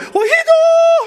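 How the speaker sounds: high-pitched fake Arabic accent. You are acting out what your mom would say to you, in her high-pitched, thick Arab accent. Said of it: "with her thick Arab accent, in that high-pitched tone".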